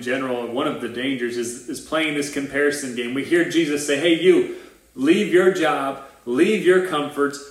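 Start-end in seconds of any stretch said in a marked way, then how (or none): 4.0-7.4 slightly raised, slow, emphatic command; acted summons. Jesus calling someone to follow him, emphatic summons. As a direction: call them out, stretching each order.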